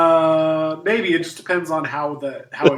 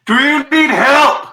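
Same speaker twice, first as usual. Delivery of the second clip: calling out; 9 semitones higher, 8 dB louder, slower than usual. Acted. Player calls through wall panel.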